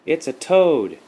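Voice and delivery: put-on high, loud little-girl answer; six-year-old girl replying. A narrator's reading. Six-year-old answers her mother about her find, high child voice. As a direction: answer up loudly like a small child. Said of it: "Nikki replied".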